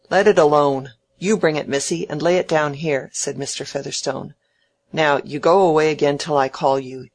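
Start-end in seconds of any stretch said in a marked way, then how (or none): 0.1-3.1 loud opening bark, then easing; snappish order. Acted. Tyrant ordering Mary about. 4.9-7.1 loud, snappish order; curt dismissal. Acted. Tyrant dismissing Mary.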